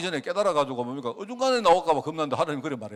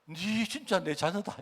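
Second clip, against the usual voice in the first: softer and slow, gently reassuring; tender God; 3 semitones higher, 5 dB quieter, slower than usual. Acted. God telling his people they are his children, soft and tender. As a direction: speak it like a father taking his child back.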